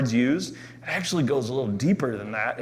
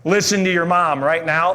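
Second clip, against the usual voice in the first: parent's stern tone; 4 semitones higher, 5 dB louder than usual. Retold or imitated. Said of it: "When they say that tone".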